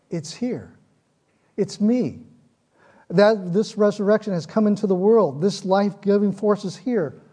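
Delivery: impassioned preaching voice; rising fervor. Real, not acted. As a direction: build the fire of the sermon. Preacher building passion.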